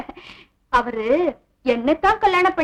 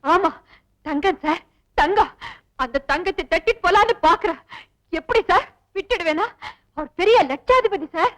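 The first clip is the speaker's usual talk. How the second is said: fake tearful pleading. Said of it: "பிரமாதண்டி உன் நடிப்பு".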